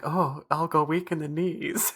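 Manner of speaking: slow, swooning co-actor; mock swooning. Co-actor jokes about going weak in the knees, slow and swooning. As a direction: swoon slowly, lightly mocking. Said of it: "co-actors was like".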